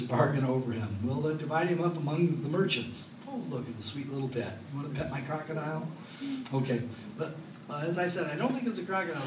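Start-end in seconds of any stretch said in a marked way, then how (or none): 3.3-5.9 soft, sugary pet talk, much softer; mock cooing. Preacher mocks someone cooing over a pet crocodile, soft and sugary. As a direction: coo over the pet like a toddler.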